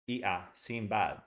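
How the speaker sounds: Sinbad with the flat cat vowel a; English cat vowel. Shown as a demonstration. Teacher showing learners the cat vowel in Sinbad. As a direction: say Sinbad with the a of cat, not a Spanish a. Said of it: "That's the English vowel, the cat vowel".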